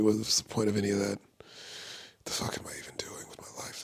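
hushed, defeated self-talk sinking into a whisper; mock despairing mutter. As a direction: mutter it under your breath, acting hopeless. Acts out despairing drive home after bombing.

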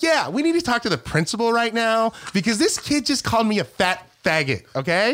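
brightly polite, slowing on the insult; chipper. Retold or imitated. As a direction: report trouble in a chipper front-desk tone. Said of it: "I'm, like, all chipper and shit".

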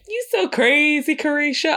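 high, slow mock voice of a rapper; imitating a rapper. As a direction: drawl it out in a put-on high Miami voice. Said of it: "even if she said".

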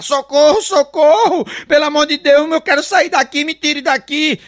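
mock cries for help. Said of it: "ela começou a gritar".

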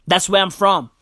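usual speaking voice

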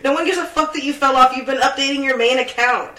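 getting angry. Real, not acted. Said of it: "Sorry, I'm getting angry".

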